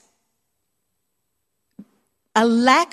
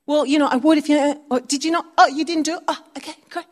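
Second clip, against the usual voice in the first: mock sarcasm; 5 semitones higher than usual. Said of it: "those angry words".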